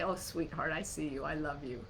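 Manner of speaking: gently soothing voice of the soul; tender soul voice. Pretend. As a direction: comfort a frightened child. The soul comforting the worried person.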